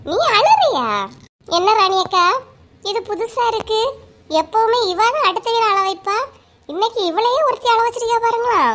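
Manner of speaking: incredulous, high, tickled delivery; amused teasing. Acted. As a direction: tease her, barely holding back laughter. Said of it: "நீ வேற சிரிச்சிட்டு இருக்கா".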